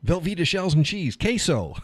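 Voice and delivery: high, excited gasp of joy; thrilled at finding queso shells; mock delight. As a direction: gush over the discovery. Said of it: "So I'm like".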